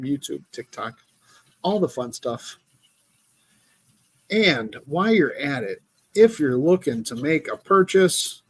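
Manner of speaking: smooth announcer ad read; commercial voice. Pretend. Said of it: "commercial voice".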